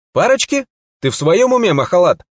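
high, loud indignant cry; outraged outburst. A narrator's reading. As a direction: shout it in disbelief. Martin outraged by her indifference.

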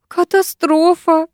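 high, slow wail of doom; nanny wailing high and slow; panicking. A narrator's reading. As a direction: drag it out in panic. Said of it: "запаниковала Краузе".

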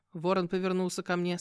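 plain reading voice

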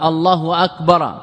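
slow الله أكبر with a faulty ending; faulty takbir; dropped-sentence slip. Shown as a demonstration. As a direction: say الله أكبر slowly, running into the next phrase. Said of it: "سقطت جملة".

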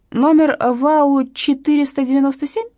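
put-on old newspaper seller continuing his interrogation, creaky; old man questioning. A narrator's reading. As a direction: grill her like a witness.

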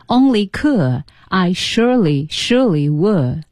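could and would drawn out to rhyme; rhyme shown. Shown as a demonstration. Host pointing out the rhyme, could and would drawn out. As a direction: stretch "could" and "would" as a matching pair. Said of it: "都是押韵的".

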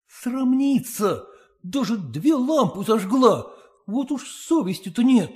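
high, slow scornful inner voice; a husband fuming to himself at the lamps; voiced husband, scandalised muttering; indignant husband's thoughts. A narrator's reading. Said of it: "подумал он".

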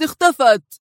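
shocked question from a stunned colleague; astonished. A narrator's reading. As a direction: gasp it out, caught off guard. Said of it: "هتف ديفيد في دهشة".

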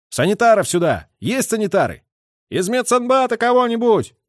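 loud, high call for medics. A narrator's reading. Calling for medics.

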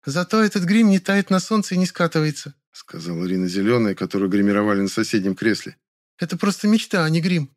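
high, enthusiastic actress voice; older actress. A narrator's reading. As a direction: praise the makeup brightly. Actress praises makeup.

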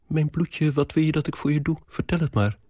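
put-on old nanny rushing to help her girl; fussing old nanny. Nanny voice, high and quick. (bezorgde oude njanja, iets hoger en snel)

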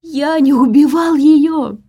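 high, loud, slow scream of denial; a suspect screaming his innocence from above; desperate shout. A narrator's reading. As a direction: yell it down from the ceiling in terror. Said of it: "прокричал он оттуда".

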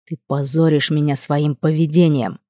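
slow, low gritted-teeth growl; through gritted teeth. Acted. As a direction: grind it out through clenched teeth. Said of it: "процедил сквозь зубы Маркус".

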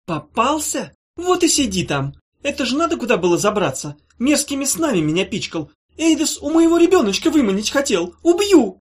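high, loud furious witch catching a prisoner; shrill-edged raging witch. Acted. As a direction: scream down at the trapped creature, rising to a kill threat.

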